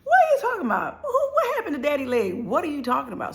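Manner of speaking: high, laughing through tears; can't believe it, half laugh half sob; hearing shocking news, crying disbelief. Retold or imitated. Hearing grandpa lost his leg.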